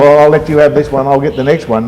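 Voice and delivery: a touch of a cocky dealer. Retold or imitated. Voicing a rival dealer.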